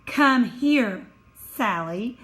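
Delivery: commanding, clipped order with a fall on Sally; bossy. Shown as a demonstration. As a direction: order Sally over like a boss. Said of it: "if I'm being bossy".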